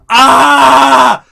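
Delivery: high, loud panicked yelp; alarmed scream. Retold or imitated. Family yelping as brother lifts the box.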